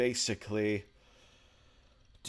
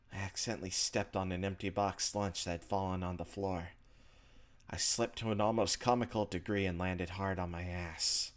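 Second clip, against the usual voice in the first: measured first-person narration, softer than the chat; story narration; 3 semitones lower, 5 dB quieter than usual. A narrator's reading. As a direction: read the inner monologue like a story. Reads visual novel narration aloud.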